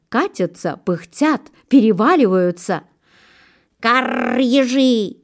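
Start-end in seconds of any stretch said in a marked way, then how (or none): 3.8-5.2 long rolled caw, then the call; crow's yell. A narrator's reading. Crow yells to the hedgehog family, rattling caw. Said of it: "заорала ворона".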